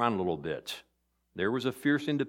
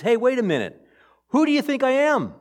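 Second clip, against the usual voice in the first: mild challenge; 10 semitones higher, 4 dB louder than usual. Acted. Jesus voiced challenging Pilate.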